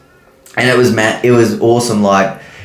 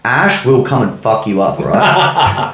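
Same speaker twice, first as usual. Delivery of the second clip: laughing threat; slower than usual. Real, not acted. Joking threat to commenters.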